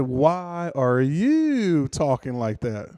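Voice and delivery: mocking slow-talking comeback; mimicking slow speech. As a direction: throw the drawn-out question right back.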